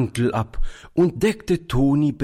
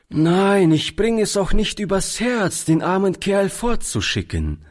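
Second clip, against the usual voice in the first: kindly doctor in a much higher voice; friendly; 10 semitones higher than usual. A narrator's reading. Doctor agrees to keep the poor boy, friendly high voice. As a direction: lift the voice high, obligingly. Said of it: "antwortete der Arzt freundlich".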